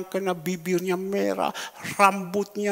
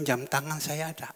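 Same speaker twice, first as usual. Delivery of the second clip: whispered question; 2 semitones lower, 6 dB quieter than usual. Retold or imitated.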